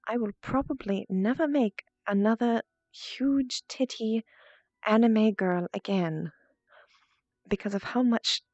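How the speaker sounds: put-on calm, seductive posh English accent; Shantara posh English accent. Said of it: "I'm going to go ahead and just speak in it naturally".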